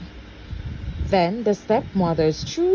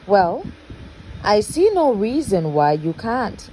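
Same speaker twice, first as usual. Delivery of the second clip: sly smile; 3 semitones higher than usual. Acted. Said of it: "replied with a sly smile".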